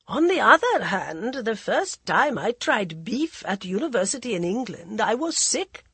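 cool, mocking aristocrat voice; mocking prince. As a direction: sneer it like a bored royal. Prince Pratap speaks at dinner.

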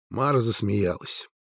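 plain reading voice

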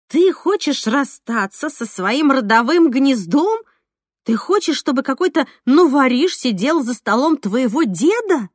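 friend pleading. Acted. Alyona pleading, voiced by narrator.

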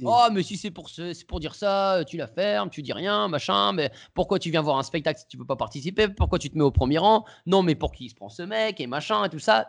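mock the crowd turning on the heckler; mild mock outrage of the audience; booing crowd. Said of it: "les gens huent".

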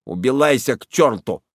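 Убилайся said with l for r, burring; burred r. Acted. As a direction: rude burring boy saying Убилайся. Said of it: "отвечает своим картавым голосом".

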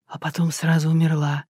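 ordinary delivery

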